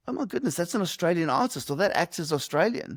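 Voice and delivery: high, surprised gasp of realisation; amazed discovery. Retold or imitated. Immigrant recalling learning a star is Australian, amazed. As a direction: sound struck by the news, pitch jumping up.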